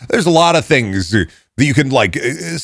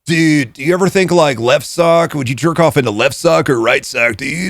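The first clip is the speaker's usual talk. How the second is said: mock podcast philosopher; 2 semitones higher than usual. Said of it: "You're just recreating Jogan".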